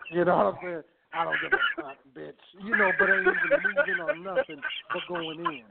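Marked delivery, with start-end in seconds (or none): 1.1-2.3 flat robotic voice. Pretend. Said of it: "In his robot voice". 2.6-5.6 high-pitched, giddy retelling; excited. Real, not acted. Laughing high excited telling.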